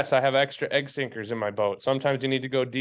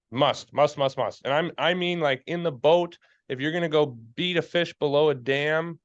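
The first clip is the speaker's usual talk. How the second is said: preaching; 2 semitones higher than usual. Real, not acted. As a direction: hammer the point home like a sermon. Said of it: "I'm preaching, I'm preaching here a little bit".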